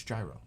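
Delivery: "gyro" with j and long i, settled; New York gyro. Shown as a demonstration. New Yorker settling the argument, "gyro" as JAI-roh. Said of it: "as I'm pronouncing it".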